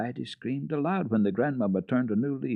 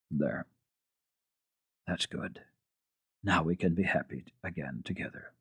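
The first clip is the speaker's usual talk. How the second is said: soft and hushed, fading quieter; encouraging; 3 semitones lower, 7 dB quieter than usual. A narrator's reading. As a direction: coax the child gently back to calm. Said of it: "saying encouragingly now and then".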